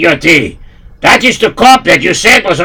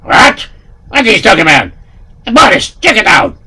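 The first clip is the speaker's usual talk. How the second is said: high, loud astonished Russian; shocked Russian henchman; Russian accent; 8 semitones higher, 4 dB louder, faster than usual. Acted.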